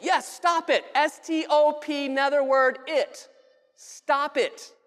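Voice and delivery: curt dismissive order; blunt counselor command. Retold or imitated. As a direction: snap it off like an impatient counselor. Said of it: "he's playing the part of a counselor".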